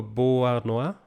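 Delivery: "Beauharnois" said the French way; French pronunciation. Shown as a demonstration. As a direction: say "Beauharnois" as a French speaker would. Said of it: "pronounce it in a French way".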